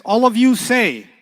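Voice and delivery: loud, slow teacher's command. Shown as a demonstration. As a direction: command the class to speak up.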